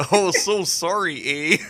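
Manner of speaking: slow, hammed-up Canadian accent; goofy Canadian accent quoting a movie; light joking Canadian accent; mock Canadian accent. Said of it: "doing the stupid, uh, Canadian accents".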